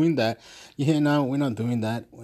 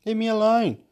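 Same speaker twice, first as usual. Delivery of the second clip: telling someone off; 9 semitones higher than usual. Retold or imitated. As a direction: snap it at someone pestering you. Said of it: "I have to sometimes say".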